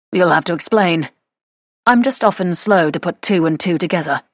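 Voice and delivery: a hint of an easygoing English gentleman; lightly voiced suitor. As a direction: play the suitor lightly, untroubled by his slowness. Suitor's character voice.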